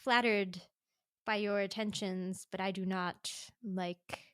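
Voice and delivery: a stuffy doctor turning someone down; mock formal rejection. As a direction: decline politely and primly. Voicing the stiff doctor's rejection.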